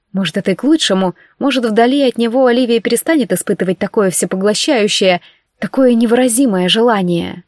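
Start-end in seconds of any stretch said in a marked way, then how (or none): none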